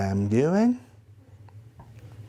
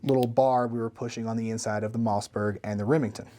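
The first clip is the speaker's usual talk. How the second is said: talking around a flashlight; mouth propped open. Real, not acted. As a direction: speak with something held in your mouth. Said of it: "put the flashlight in my mouth".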